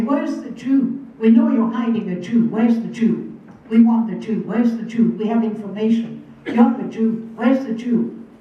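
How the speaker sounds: loud, hammering questions, each one pressed harder; soldiers' demanding shout. Retold or imitated. Soldiers demanding the hidden Jew from the woman, shouted loud. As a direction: bark the demand over and over like an interrogator.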